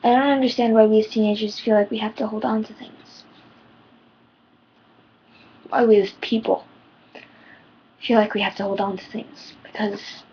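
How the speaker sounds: struggling to keep the voice steady; shaky voice. Real, not acted. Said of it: "my voice is shaking".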